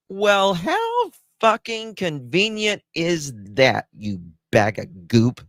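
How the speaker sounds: drip contempt on every word; scornful sarcasm. Real, not acted. Angry sarcasm at the father.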